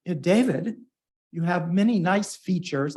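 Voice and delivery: put-on barely-there British accent, quoting Toby; half-hearted British accent. Quoting charming Brit Toby, faint British accent. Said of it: "imagine him saying this in his charming, adorable Brit accent".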